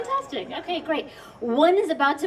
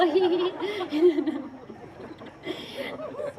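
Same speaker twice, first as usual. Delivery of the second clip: light laugh; 7 semitones higher, 4 dB quieter than usual. Real, not acted. Laughs after mocking audience.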